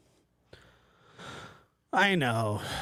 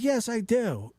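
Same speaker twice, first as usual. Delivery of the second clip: imitating grandma; 8 semitones higher than usual. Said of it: "She's like".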